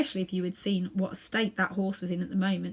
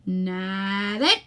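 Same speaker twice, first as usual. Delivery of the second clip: policeman. Acted. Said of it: "said the policeman".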